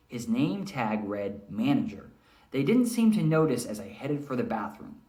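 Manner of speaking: lively read-aloud narration; teacher reading a chapter to the class; story narration. Acted. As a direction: tell it like an engaging storyteller.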